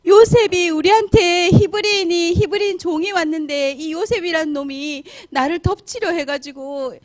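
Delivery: high, hammed-up wailing accusation; loud lying complaint. Wife lies to the servants about Joseph, wailing loudly. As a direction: cry out the false charge, stretching phrase ends. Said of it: "막 말했어요. 큰 소리로".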